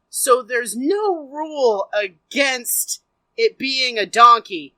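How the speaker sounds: refs slowly laying out a loophole, building loud at the end; deliberate, official tone, last word loud; pedantic referees. Retold or imitated. Referees explain the rule to the owner, slow and official. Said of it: "the refs come back and they're like".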